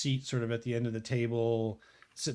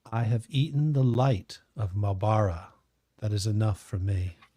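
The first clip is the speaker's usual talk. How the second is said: gentle, confiding tone; 5 dB louder than usual. Retelling what he said to the speaker, in a very soft voice. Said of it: "kind of not a whisper, but a very soft voice".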